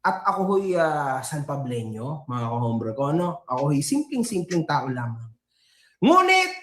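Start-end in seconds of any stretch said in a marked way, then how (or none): 0.0-5.3 humble provincial. Pretend. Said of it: "simpleng probinsyano lamang".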